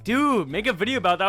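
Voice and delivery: eager friend. Retold or imitated. Friend after three-pointer.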